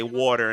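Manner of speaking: water with the aw of New York; New Jersey water. Shown as a demonstration. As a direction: lean on the round aw in water. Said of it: "the way I pronounce".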